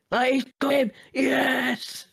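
high-pitched excited yelp; excited cheer. Retold or imitated.

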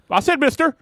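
high, laughing protest. Real, not acted. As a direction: laugh it out defensively. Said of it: "you get hung up on the smallest things".

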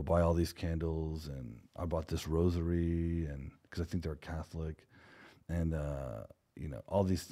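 a touch of softness, offering sympathy; gentle condolence. Retold or imitated. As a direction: speak gently to a grieving mother, reassuring her. Offering condolences to a grieving mother.

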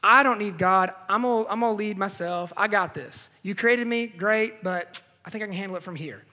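mocking the proud sinner; defiant rebel. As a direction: play the self-sure rebel, dismissive. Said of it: "We're like".

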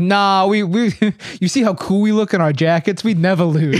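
put-on joking, laughing Japanese accent; goofy Japanese accent with a laugh. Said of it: "This is how you do a Japanese accent".

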